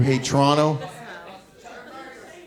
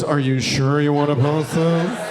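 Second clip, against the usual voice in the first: polite lightly voiced app prompt; 3 semitones lower than usual. Twitter asks the poster to confirm, polite prompt voice. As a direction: read it like a calm app warning. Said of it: "when Twitter goes".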